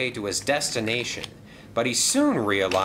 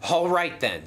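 apologetic, fussy, a bit breathless; flustered gentleman voice; 7 semitones higher than usual. Acted. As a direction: fluster through the excuses politely. Percival starts.

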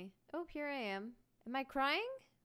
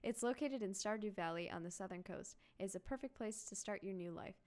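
soft, lowering letter reading; letter read aloud; 4 dB quieter than usual. Acted. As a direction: read it as a tender sign-off, getting quieter. Reads grandfather's letter aloud.

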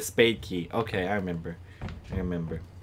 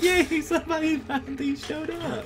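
much higher, slower, goofy mock-happy voice; voicing the zombie; slower than usual. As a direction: play the monster as a thrilled host. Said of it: "He's like".

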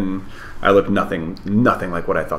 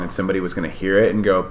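ordinary delivery

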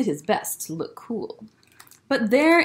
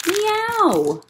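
higher playful cat meow; 12 semitones higher, 3 dB louder than usual. Acted. Cat meowing in story.

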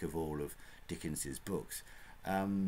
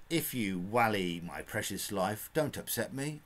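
Cockney gentleman quote; 3 semitones higher, 4 dB louder than usual. Retold or imitated. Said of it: "as a gentleman said".

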